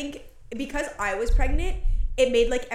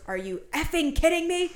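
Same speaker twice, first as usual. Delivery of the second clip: shocked mom; 5 semitones higher than usual. Retold or imitated. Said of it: "my mom's first response goes".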